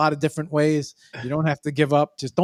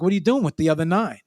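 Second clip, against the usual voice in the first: mock suspicious; 6 semitones higher than usual. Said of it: "And I'm like".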